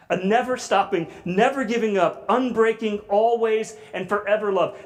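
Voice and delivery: building passionate emphasis. Shown as a demonstration. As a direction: repeat it with rising fervor to the congregation. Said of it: "repeats the definition with more force".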